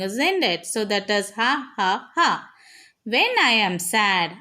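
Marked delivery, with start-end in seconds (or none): 1.4-2.3 mock laugh. Shown as a demonstration. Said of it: "whenever you are happy, you will be laughing".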